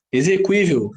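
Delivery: "Exequível" with the u sounded; pronunciation demo. Shown as a demonstration. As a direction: say "Exequível" as "eze-kwí-vel". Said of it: "isso aí".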